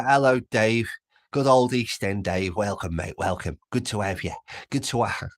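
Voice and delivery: playful put-on East End London accent; mock East End accent. Streamer welcoming a viewer from the East End, in a jokey East End accent. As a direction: greet the viewer like a cheeky East End geezer. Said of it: "I promise not to do the accent anymore".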